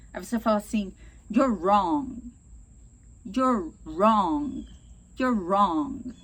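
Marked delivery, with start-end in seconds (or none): 1.3-6.1 loud, blunt accusation; louder, blunt and confrontational; aggressive. Shown as a demonstration. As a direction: tell them flatly they're wrong. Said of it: "É um pouco agressivo".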